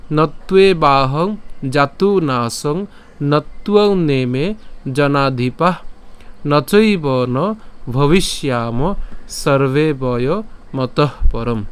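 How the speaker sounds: slow, measured shloka chant; Sanskrit verse recitation. Shown as a demonstration. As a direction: draw out each long vowel as you recite. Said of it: "আবার প্রথম থেকে যদি বলি".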